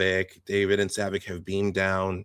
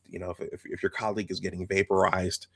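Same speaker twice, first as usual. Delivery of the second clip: whispering; 3 semitones lower, 5 dB quieter than usual. Real, not acted.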